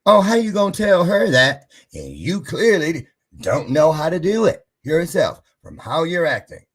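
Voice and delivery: loud, high taunting voice; mock yourself like a sneering critic; the inner critic mocking, loud and high; mocking scold. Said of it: "came back to me".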